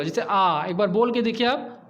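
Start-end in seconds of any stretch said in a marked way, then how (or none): 0.2-0.6 आ drawn out with the mouth wide open; vowel demo. Shown as a demonstration. Teacher showing students an open vowel, mouth wide. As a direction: open wide and sound आ clearly. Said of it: "जिन स्वरों के उच्चारण में मुख पूरा खुलता है".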